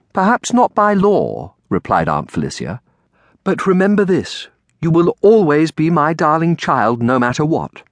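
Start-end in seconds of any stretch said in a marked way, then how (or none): 0.1-1.6 higher, slow, measured aunt voice; lightly voiced kindly aunt. 3.4-7.8 higher, reassuring aunt voice; lightly voiced loving aunt. Aunt promises darling child her love, reassuring.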